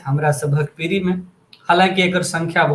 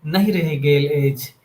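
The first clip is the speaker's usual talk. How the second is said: poetry recitation. Acted. Host reciting a poem on new India to listeners, measured recitation. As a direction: recite it line by line, pausing after each.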